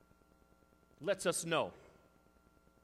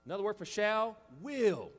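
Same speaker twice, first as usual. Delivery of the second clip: ordinary talk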